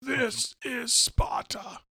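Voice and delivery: high, very slow hammed-up movie line; mock Sparta line. Cohost joining in with a hammed-up movie quote. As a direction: drag out the famous line like a parody. Cohost joins the Butler impression.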